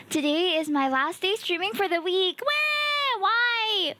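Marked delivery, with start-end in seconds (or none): 2.4-3.9 high surprised cry; excited wah. Real, not acted. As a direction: burst out surprised. Exclaims at chat.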